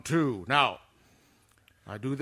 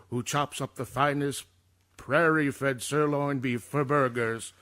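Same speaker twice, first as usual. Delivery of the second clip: commercial read. Acted. Reads the next commercial.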